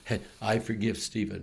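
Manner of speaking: soft, settled affirmation after self-talk; quiet forgiveness mantra. Shown as a demonstration. Pastor modeling self-forgiveness, softly. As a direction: release it gently, like a prayer. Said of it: "Say it seven times".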